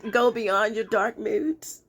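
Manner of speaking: slow, teasing singsong delivery; playful put-on reading. Reader giving the day's advice, playfully drawn out. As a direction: draw it out playfully, leftover mock whine. Silly reading before stopping herself.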